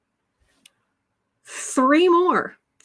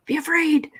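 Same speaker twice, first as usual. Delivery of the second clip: mock warning; 6 semitones higher than usual. Repeats, higher and voiced.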